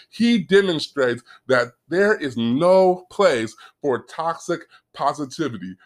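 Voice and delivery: usual speaking voice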